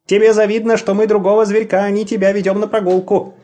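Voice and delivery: put-on high teasing kid voice; teasing child. A narrator's reading. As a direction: taunt the dog like a kid. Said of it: "подразнил его Петер".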